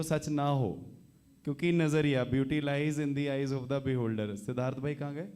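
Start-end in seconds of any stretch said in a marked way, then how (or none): 2.3-4.4 drawn-out, slow recital of a saying; slow proverb. Acted. Host quoting a proverb to the crowd, slow and weighty. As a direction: spell the proverb out slowly like a sage.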